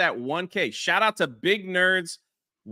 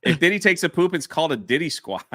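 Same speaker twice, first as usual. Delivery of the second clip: louder, clear reading of the line; louder careful read; 3 dB louder, faster than usual. Real, not acted. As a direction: read it out properly and firmly. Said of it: "didn't wanna read anything wrong".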